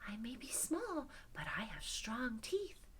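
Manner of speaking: a hint of a little mouse, quietly sure; plucky mouse. Small mouse offers lion its strong teeth, plucky mouse. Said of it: "And the mouse says".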